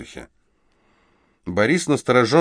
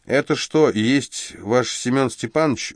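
surprised; 4 semitones higher than usual. Acted. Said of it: "удивлённо осведомился Ордынцев".

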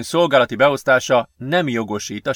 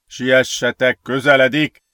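mildly raised warning call; a touch of urgency, calling out; calling from afar; 4 dB louder than usual. A narrator's reading. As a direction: urge them on from a distance. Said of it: "jelezte Gergő a távolból".

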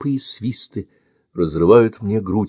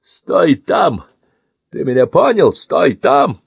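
higher, louder warning; threatening order; 7 semitones higher, 4 dB louder, slower than usual. Acted. Man warns the boy to stay, threatening order. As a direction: warn him not to move.

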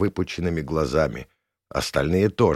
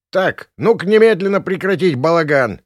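much higher, loud official bark; angry shout; 10 semitones higher, 6 dB louder than usual. Acted. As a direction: shout down the racket, furious. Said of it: "вскричал рассерженный". (рассерженный крик участкового)

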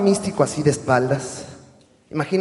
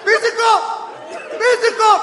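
shouting name; 10 dB louder, slower than usual. Retold or imitated. Imitating fan yelling at wrestler.

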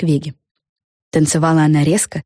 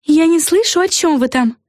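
mock hiss; 11 semitones higher than usual. A narrator's reading. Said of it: "прошипела Флафанора".

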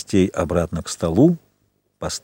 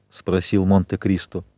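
plain reading voice

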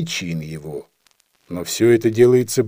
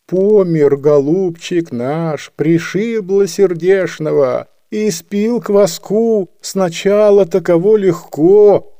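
high, slow singsong wail; keen on and on in a muddle; old woman wailing for her dead; rambling lament; 5 semitones higher, 4 dB louder, slower than usual. A narrator's reading. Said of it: "Старуха от грозного голоса начальника трепетала, терялась и понесла дичь".

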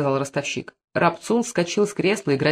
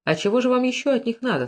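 raised voice without extra volume; 8 semitones higher than usual. A narrator's reading. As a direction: question pitched sharply higher. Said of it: "повышая голос".

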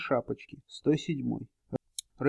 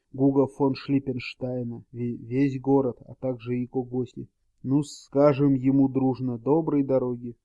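pompous mayor. Acted. Mayor's pompous farewell speech.

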